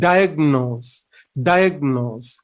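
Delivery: "diagnose" weighted on "di", falling away; first-syllable stress. Shown as a demonstration. Teacher drilling the correct pronunciation, first-syllable stress. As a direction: stress "di" in "diagnose", "nose" unstressed. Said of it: "we have to state the first syllable".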